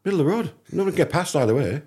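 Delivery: can't-believe-it retelling; incredulous. Real, not acted. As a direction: sound amazed at the parking. Amazed at the parking.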